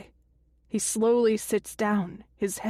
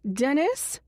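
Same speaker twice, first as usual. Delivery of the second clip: high, rising questioning call; 6 semitones higher than usual. A narrator's reading. Voice from down the hall seeking Dennis, calling out. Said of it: "a voice calls out from down the hall".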